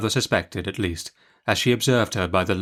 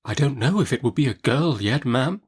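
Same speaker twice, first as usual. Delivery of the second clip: a touch of innocent sincerity; lightly, innocently; 4 semitones higher than usual. Acted. Mother answering Betsy, innocently. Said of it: "said my mother innocently".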